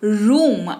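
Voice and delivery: emphatic teacher's रूम, "ROOOM"; stressed long "oo". Shown as a demonstration. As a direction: drop the pitch and lean into रूम. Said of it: "जरा जोर पड़ेगा शब्द पर".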